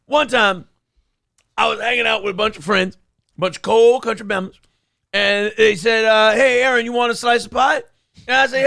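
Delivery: put-on comic old comedian storytelling voice; P D Green voice. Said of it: "I'll do P D Green".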